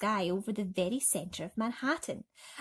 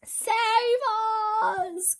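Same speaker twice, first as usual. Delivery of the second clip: higher frightened plea; cry; 7 dB louder than usual. A narrator's reading. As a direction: beg to be saved. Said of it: "cried Miss Spider".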